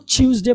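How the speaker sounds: ट्यूसडे said as "CHOOZ-day"; British ch pronunciation. Shown as a demonstration. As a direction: begin ट्यूसडे with ch. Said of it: "पढ़ने की ज़रूरत नहीं है".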